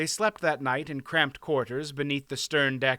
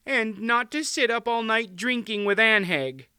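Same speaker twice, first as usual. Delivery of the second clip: high-pitched nagging wife; high queen voice, fretting; fussing queen; 8 semitones higher, 4 dB louder than usual. A narrator's reading. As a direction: nag him in a high, worried voice. Tearful queen fussing over husband.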